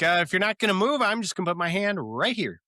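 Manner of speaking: lightly played Chandler baiting Joey; Chandler teasing. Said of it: "He's like".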